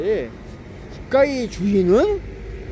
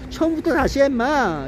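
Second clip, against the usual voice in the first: mock scolding; 6 semitones higher than usual. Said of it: "이런 식으로 얘기하는 거라고".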